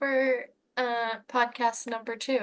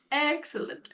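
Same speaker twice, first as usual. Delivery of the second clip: higher-pitched imitation of a scheming villain; Goob; 4 semitones higher than usual. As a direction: voice the villain giving the line first. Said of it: "and Goob goes".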